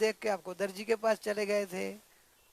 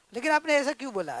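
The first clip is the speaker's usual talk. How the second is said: quick, still-indignant demand; mildly angry protest; 3 semitones higher, faster than usual. Acted. Father-in-law demands why she said it, annoyed. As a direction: press for an answer, cooling only slightly. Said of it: "लो ठंडे हुए थोड़े".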